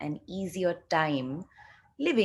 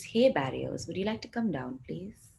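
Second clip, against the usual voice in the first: guided meditation; 4 dB quieter than usual. Acted. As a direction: ease the group into the exercise gently. Coaxes the barriers down.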